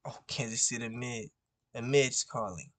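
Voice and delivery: quick unvoiced whisper; hushed whisper to the viewers; whispered aside. Real, not acted. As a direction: whisper it before picking up. Seeing who's calling.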